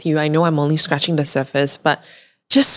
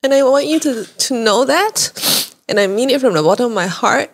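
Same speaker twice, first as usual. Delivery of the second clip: emotional; 6 semitones higher than usual. Real, not acted. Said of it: "I'm so emotional this episode".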